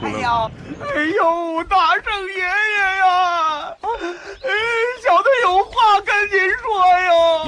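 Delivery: slow, whimpering plea with fake crying; mock wailing. Little demon begging the Great Sage, in a hammed-up whimpering wail. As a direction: wail pitifully to win mercy.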